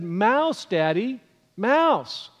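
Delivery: put-on rising, urgent little child's call; a hint of a toddler pressing his point; insistent toddler. Son urging his dad to look up, insistent.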